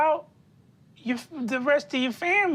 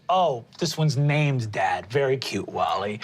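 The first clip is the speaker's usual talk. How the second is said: David's voice; 8 semitones lower than usual. Acted. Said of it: "looks down and goes".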